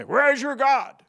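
high, loud mocking taunt; taunting critic. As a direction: jeer it like a scoffer. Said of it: "we hear that taunting".

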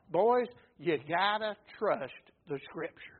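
a hint of a kind teacher telling his disciples; Jesus teaching gently. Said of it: "He, he taught them, first of all".

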